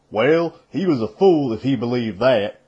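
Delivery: a touch of firmness, lightly voiced; firm. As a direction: say it firmly but not angry. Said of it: "Perrin said firmly".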